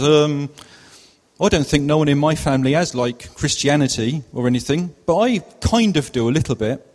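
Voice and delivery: lightly put-on Cotswold accent. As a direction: play a young boy with a Cotswold accent. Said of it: "it's a Cotswold accent".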